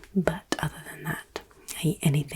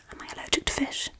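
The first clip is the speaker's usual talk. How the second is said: hushed, playful quiz-game whisper; faster than usual. Acted. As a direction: whisper it intimately, close to the listener.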